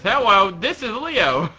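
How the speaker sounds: drawn-out, swooping hello; Leo. Acted. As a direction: answer the phone as a little cartoon character. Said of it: "He says".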